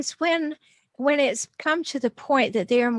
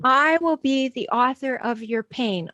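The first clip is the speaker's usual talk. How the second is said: stern parent. Retold or imitated. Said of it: "The parent says".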